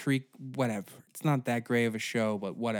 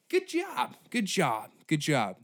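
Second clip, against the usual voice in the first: sarcastic; 3 semitones higher than usual. Acted. Sarcastic praise.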